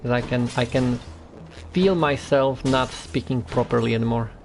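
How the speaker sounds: tired mouth, words slurring slightly. Real, not acted. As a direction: talk through a sore, worn-out jaw. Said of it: "my mouth is getting tired".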